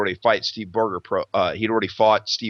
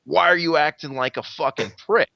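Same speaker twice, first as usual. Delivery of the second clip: mild retold irritation, rising higher; retold anger; 3 semitones higher than usual. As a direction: act out a peeved challenge. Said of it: "continues to get mad and mad".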